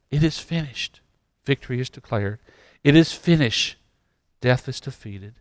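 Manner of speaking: rising, rhythmic declaration; building proclamation. Real, not acted. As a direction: preach a refrain that builds, easing off after each cry. Preacher builds a repeated declaration.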